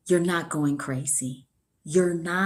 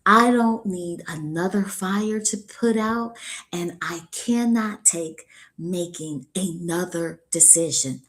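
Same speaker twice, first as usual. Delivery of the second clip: exasperated sigh. Retold or imitated. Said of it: "If you are ever like me and have said".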